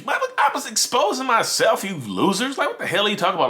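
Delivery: high, loud outburst at the losers; angry yelling. Real, not acted. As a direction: yell it out, fed up and furious. Angry rant at online critics.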